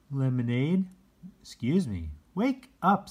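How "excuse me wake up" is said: high and louder call; rising wake-up call; waking the cats. Acted. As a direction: rouse the sleeping cats. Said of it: "said Nick".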